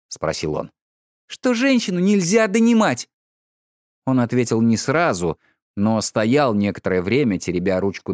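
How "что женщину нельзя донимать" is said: wife retorting sharply to husband. A narrator's reading. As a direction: throw it back at him.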